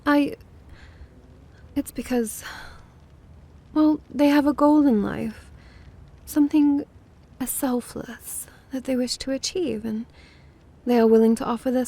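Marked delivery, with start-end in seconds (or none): 0.0-8.5 halting, with awkward gaps between phrases; flustered justifying. Acted. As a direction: fumble for an excuse, stopping and restarting. Flustered, justifying sudden interest in human.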